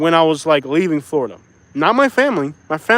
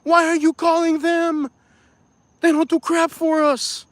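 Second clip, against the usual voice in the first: higher, slow mock retort; quoting himself; 9 semitones higher, slower than usual. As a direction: replay his own retort in a raised voice. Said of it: "And I said".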